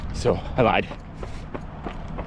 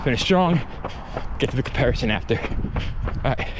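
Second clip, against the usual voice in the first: talking mid-run, between breaths; while running. Real, not acted. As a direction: speak as if jogging on hills. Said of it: "taking some rolling hills".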